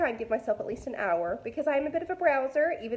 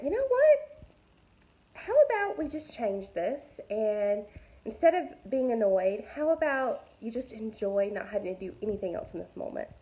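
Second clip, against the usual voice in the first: sudden bright idea. Retold or imitated. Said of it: "And I just went".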